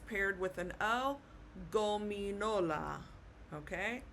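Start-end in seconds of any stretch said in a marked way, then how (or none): 1.7-3.0 gominola with a hard g as in go; Spanish pronunciation. Shown as a demonstration. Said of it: "like the G in English".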